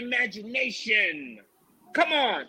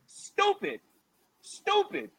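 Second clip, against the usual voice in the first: mock high squeak; 10 semitones higher, 4 dB quieter, slower than usual. Mocking squeak.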